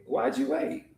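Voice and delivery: high, hurt reproach; offended question. Acted. Martha reproaching Jesus for coming late, high and hurt. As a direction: call him out.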